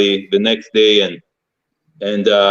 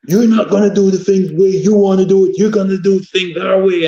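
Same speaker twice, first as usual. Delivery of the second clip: high-pitched mock yell of a scolding coach; retold coach's yelling; 9 semitones higher than usual. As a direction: imitate a coach laying down the law, voice pitched up. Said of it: "just started yelling at me".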